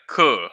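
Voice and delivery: CUH with the final z dropped; Southern cuh. Shown as a demonstration. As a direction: say cousin as a short CUH. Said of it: "I never really liked".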